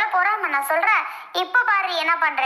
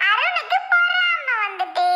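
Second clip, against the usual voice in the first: teasing laugh; 7 semitones higher, slower than usual. Real, not acted. Teasing husband about jealousy.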